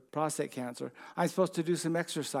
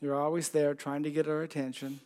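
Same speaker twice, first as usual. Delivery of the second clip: prayer. Real, not acted. Leads a closing prayer.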